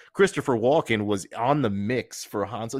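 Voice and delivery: giddy fan excitement, voice shooting up; excited gush. Real, not acted. Gushing about a dream casting.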